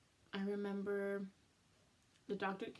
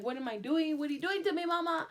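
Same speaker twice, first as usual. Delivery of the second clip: put-on high, loud, whiny little baby voice; imagined baby's voice; 7 semitones higher, 7 dB louder than usual. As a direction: play the upset baby inside complaining to mama. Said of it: "what if he's like".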